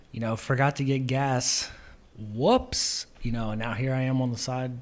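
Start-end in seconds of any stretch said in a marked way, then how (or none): 0.4-3.1 mock shrug. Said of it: "inserted it into other situations".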